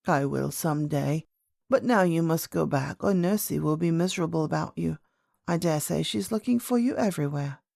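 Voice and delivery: lightly voiced old lady, kindly firm. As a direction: play an elder sending a child back. Old lady answers princess.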